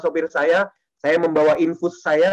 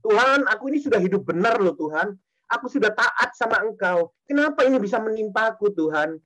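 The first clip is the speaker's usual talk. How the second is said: mock complaint; 3 semitones higher than usual. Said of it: "Seringkali kita protes sama Tuhan".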